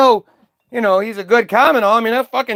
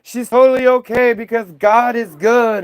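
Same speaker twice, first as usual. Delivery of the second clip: gushing dad; 3 semitones higher than usual. Retold or imitated. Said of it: "he's like".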